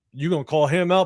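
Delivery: normal talking voice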